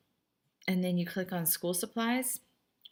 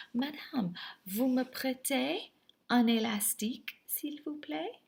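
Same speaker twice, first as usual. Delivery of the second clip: higher-pitched student's polite request; student asking politely; 6 semitones higher, slower than usual. Acted. Student asking madame for a rubber band, polite high-pitched request. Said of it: "you guys have a tendency to ask this".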